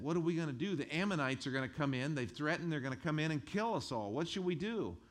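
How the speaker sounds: high, loud frightened pleading; loud, high panic over the Ammonite threat; panicked people. Retold or imitated. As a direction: cry out in alarm like a scared crowd. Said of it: "they all said".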